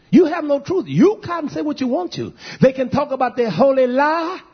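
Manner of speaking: emphatic sermon denunciation; forceful preaching. Real, not acted. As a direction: rebuke them like a preacher.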